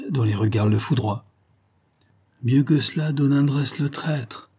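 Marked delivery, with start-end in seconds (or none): 2.4-4.5 understated contempt, lean on traître; calm crushing contempt. Acted. Young chief coolly scorning the magistrate. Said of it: "d'un ton calme mais écrasant de mépris".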